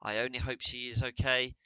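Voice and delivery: podcast host pretending partner vanished, mock announcer voice; mock solo podcast intro. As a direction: pretend to host alone, worried. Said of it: "Be like".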